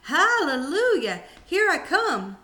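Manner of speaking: put-on high, loud, slow old woman's crowing; a crazed grandma triumphant as she grows; ecstatic old grandma. Grandma rising through floor.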